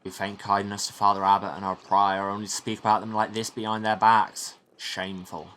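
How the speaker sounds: steady, emphatic monk's rebuke; lightly voiced stern monk. Old monk warning an impudent youth, lightly voiced sternness. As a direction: admonish like a scripture-quoting elder, lightly acted.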